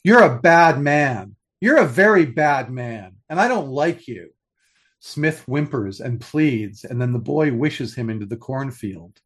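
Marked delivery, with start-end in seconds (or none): 0.0-4.3 put-on child's loud accusation. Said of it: "He wakes him up and says".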